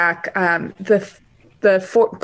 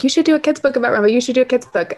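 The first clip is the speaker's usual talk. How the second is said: eager fans; 5 semitones higher, faster than usual. Retold or imitated. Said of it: "DMs on Instagram asking".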